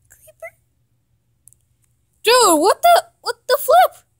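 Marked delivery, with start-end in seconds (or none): 2.2-4.0 exasperated outburst. Real, not acted. Young gamer finding no creepers, exasperated. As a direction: pitch jumps up, loud and fed up.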